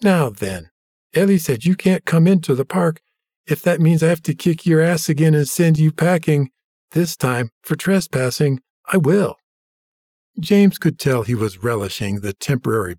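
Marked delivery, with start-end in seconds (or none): 0.0-9.4 a hint of gloating bully; smug bully. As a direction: lean into the petty power. Smug bully Arnie threatens James.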